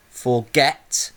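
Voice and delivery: FORGET with the second syllable, get, leaned on and rising; stress on GET. Shown as a demonstration. Teacher showing stress at the end, get emphasised. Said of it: "the get is as my stressed syllable".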